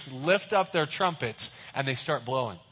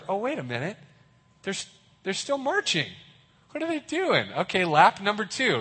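rising puzzled voice, higher; wondering aloud at the marchers; puzzled onlookers; 4 semitones higher than usual. Retold or imitated. A watcher on the wall, puzzled and higher-pitched. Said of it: "everybody's like".

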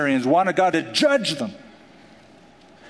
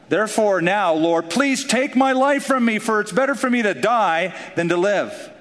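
despairing Jonah; 5 semitones higher than usual. Acted. Jonah's despairing plea to die.

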